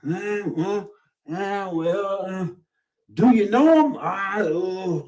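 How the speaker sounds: hedging nervously, then dodging with a question; hesitant backpedaling. Retold or imitated. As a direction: acquaintances avoiding vouching for someone, stammering. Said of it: "people start backpedaling like".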